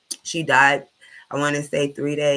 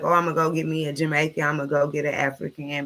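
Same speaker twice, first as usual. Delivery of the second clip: mocking girls' voice. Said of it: "all y'all sis girls be like".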